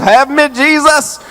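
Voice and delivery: laughing through a high plea to Jesus. Real, not acted. Preacher laughing to congregation, amused plea. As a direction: chuckle it out, pleading.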